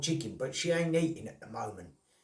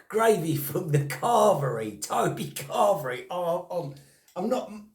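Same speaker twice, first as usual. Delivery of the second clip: laughing disbelief; 4 semitones higher, 4 dB louder than usual. Real, not acted. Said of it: "I'm laughing 'cause I just couldn't believe it".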